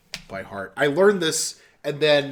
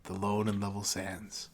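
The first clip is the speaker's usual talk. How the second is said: poem recitation; 3 semitones lower than usual. Acted. Finishing Ozymandias for friends, slow and hushed. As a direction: let it fade to a hush.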